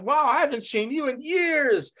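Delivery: bright high mock greeting from an old drinking buddy; old party friend. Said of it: "You're like".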